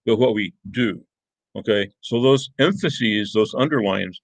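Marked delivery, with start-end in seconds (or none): 0.1-1.0 "do" set apart at the end; stress on DO. Shown as a demonstration. Teacher showing the underlined contrast, stress on "do". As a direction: land firmly on "do" for contrast. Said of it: "emphasizing different words to provide those contrasts".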